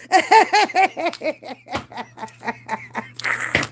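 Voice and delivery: big hearty laugh. Real, not acted. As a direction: burst out laughing at your own joke. Laughs at own joke.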